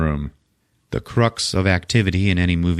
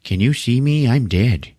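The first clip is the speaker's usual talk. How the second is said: put-on spooky older lady; 3 semitones higher than usual. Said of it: "the lady who was like".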